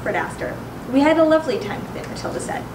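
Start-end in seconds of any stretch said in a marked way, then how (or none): 0.9-2.1 quick, high, loud and cheery; breezy enthusiasm. A narrator's reading. Matilda returning the parrot, breezy and quick. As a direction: rattle it off high and fast.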